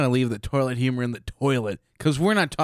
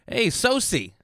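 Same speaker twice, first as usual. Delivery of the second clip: high sing-song greeting, much higher; playful call; 12 semitones higher, slower than usual. Pretend. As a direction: sing the nickname high and teasing. Calling a new nickname.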